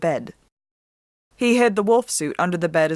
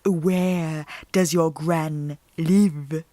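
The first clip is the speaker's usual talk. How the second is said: put-on a predator luring a little girl, slowly; sly wolf voice; much slower than usual. Wolf asks where gran lives.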